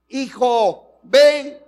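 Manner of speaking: high, loud call to a son; old father calling. Acted. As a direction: call your son from across the tent. Old Isaac calls his son. (Isaac anciano llamando a su hijo, agudo y fuerte)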